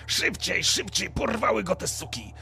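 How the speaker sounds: a touch of alarm, hurrying them on; cursing guide. Acted. Abi hurries the party after the kidnapping, urgent curse. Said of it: "słyszycie tylko przekleństwo od Abiego".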